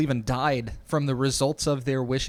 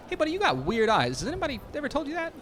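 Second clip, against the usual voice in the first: nosy fake Texan pitched up; cheesy fake Texas accent, rushed at the end; 11 semitones higher, faster than usual. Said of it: "his Texas accent, is bad and fake".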